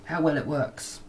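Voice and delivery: ordinary talk, nothing marked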